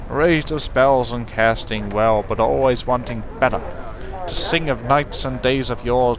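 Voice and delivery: hammed-up minstrel reciting his tale; theatrical poem recital. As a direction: declaim the verse like a stage bard. Bard recites his rhyme.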